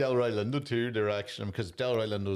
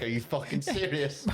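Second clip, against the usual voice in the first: laughing, incredulous; mock the stunned audience through a laugh; the BAFTA crowd reacting to the bear, laughing in disbelief; amused disbelief; 3 semitones higher than usual. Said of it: "and they're like".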